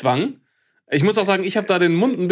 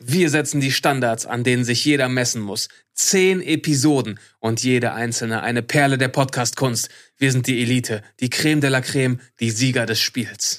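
arrogant; 4 semitones lower than usual. Acted. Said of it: "es wird nicht mehr arroganter".

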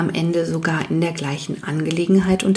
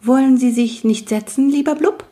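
tiny man's voice; 6 semitones higher, 4 dB louder than usual. Acted. Tiny man invites wisp.

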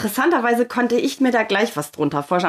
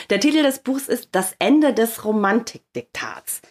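slow and deliberate; slow motion. Shown as a demonstration. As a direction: let each word land slowly. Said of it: "ich soll den Titel ganz langsam sagen".

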